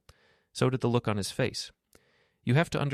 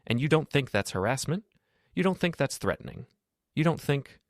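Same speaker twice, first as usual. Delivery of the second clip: rising, louder accusations at Lucas; getting louder; 7 semitones higher than usual. A narrator's reading. Lucas confronting Daniel in the garage, voice rising. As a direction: push each question harder and higher. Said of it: "getting louder".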